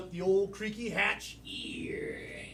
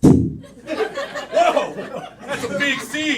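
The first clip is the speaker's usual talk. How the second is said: big amazed whoa; 8 semitones higher, 8 dB louder, much slower than usual. Acted. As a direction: gasp at the size of it. Amazed at a huge seed.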